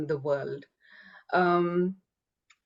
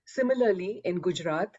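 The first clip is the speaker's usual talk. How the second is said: measured, scripted delivery for an audience; formal reading. Real, not acted. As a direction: read a prepared introduction aloud, evenly phrased. Reads her written introduction aloud.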